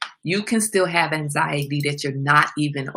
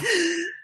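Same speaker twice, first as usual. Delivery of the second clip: demo gasp; 13 semitones higher than usual. Shown as a demonstration. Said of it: "try to take a deep breath".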